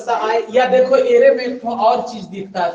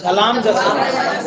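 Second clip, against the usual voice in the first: slow repeat; much slower than usual. Shown as a demonstration. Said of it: "बोलो तो पहला।".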